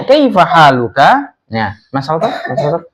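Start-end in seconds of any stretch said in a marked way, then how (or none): 0.0-1.4 slow model question. Shown as a demonstration. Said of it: "kalau ditanya".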